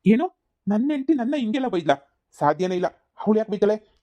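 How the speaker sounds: high, loud disbelieving outburst; shocked disbelief. Acted. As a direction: cry out in disbelief. Husband hears wife insulted him.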